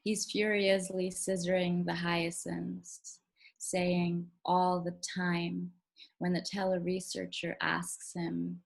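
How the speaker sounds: measured poem recital with deliberate pauses; poetry reading. Acted. Poet reading own poem to a virtual audience, measured recital. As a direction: read it slowly and deliberately, phrase by phrase. Reads second poem aloud.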